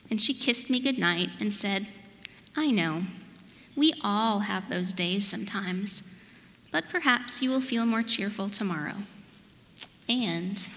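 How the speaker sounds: expressive picture-book narration, drawn-out key words; measured storytime voice with playful emphasis; storybook reading. A narrator's reading. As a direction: read it aloud to little children, unhurried. Reads storybook to children.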